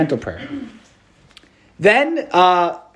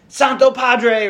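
slow, raised call across a crowd; calling out to the Pope; 8 semitones higher, much slower than usual. Retold or imitated. A fan calls the Pope by his Italian title, slow mock shout. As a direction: stretch it out like calling over a stadium. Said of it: "And just shout".

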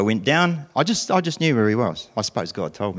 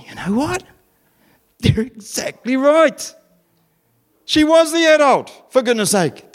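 emphatic outburst; 10 semitones higher than usual. Real, not acted. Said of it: "emphatic high raised preaching".

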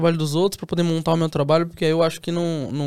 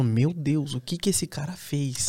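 espanto contido; 5 dB quieter, slower than usual. Retold or imitated. Reação imitada ao ver um bom Color.

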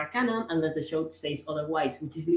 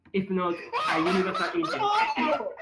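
laughing; 3 semitones higher than usual. Real, not acted. Laughing at his own point.

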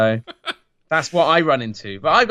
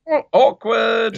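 mock awkward; 7 semitones higher, 4 dB louder, slower than usual. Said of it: "And I'm like".

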